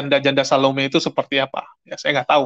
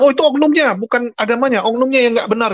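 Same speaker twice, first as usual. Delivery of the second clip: high, louder mock objection; mimicked excuse; 8 semitones higher, 3 dB louder than usual. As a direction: parrot the excuse in a raised pitch.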